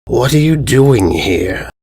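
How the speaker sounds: slow, rasping demand from the dark cave; a cave monster calling out slowly; raspy echoing voice. Acted. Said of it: "echoed a raspy voice".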